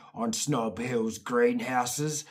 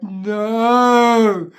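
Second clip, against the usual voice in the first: high, loud flat refusal; defiant kid no; 7 semitones higher, 12 dB louder than usual. Retold or imitated. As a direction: dig in like a stubborn kid. Kid refusing his mum.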